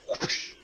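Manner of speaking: whooshing swipe sound effect; voiced whoosh. Game master narrating Azaka backhanding the guy, imitated whoosh. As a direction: make the noise of a swinging blow.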